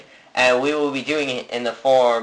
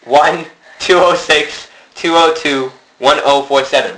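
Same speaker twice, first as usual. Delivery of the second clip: slow, deliberate repeat of the number; 3 semitones higher, 6 dB louder, slower than usual. Real, not acted. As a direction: spell out the digits slowly.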